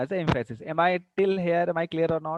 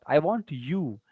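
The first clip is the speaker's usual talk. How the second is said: "you" given as the answer; stress on YOU; slower than usual. Shown as a demonstration. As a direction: put the weight on "you". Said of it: "I want what?".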